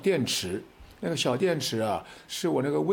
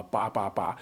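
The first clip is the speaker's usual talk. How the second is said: imitated honking; 5 semitones lower, slower than usual. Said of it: "好多人都按喇叭".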